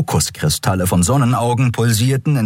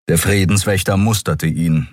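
ordinary delivery

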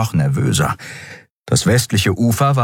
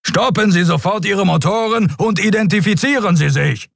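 higher, stern order from a warship captain; commanding captain; 13 semitones higher than usual. A narrator's reading. Captain orders the fleeing ship to halt, stern. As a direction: bark the command.

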